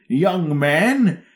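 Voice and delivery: put-on high generic wise old man; anime old man voice. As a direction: play a stock anime sage. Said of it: "he just talks like this".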